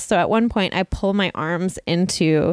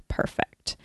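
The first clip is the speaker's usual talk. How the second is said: hushed, voiceless aside; private relief; 8 dB quieter than usual. Retold or imitated. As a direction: whisper it contentedly to yourself. Private thought, camera seemingly off.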